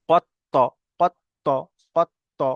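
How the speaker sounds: কত্ত with the ط closed, then popped open; qalqalah bounce. Shown as a demonstration. Teacher showing qalqalah on ত, কত্ত with a bouncing t. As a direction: stop on the heavy t of কত্ত and release a short echo. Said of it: "মাখরাজের সাথে লাগিয়ে একটু আলাদা হয়ে যাবে".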